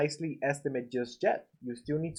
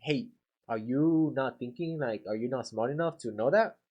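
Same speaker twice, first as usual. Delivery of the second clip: judging tone. Shown as a demonstration. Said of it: "sounds like you're judging them".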